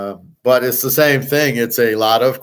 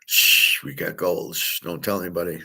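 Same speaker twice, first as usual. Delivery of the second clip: whispered secret, barely a breath; a conspiratorial whisper about the hidden gold; hushed whisper; 5 semitones lower, 6 dB quieter than usual. Pretend. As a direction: shush them like church mice hiding gold. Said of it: "quiet like church mouses".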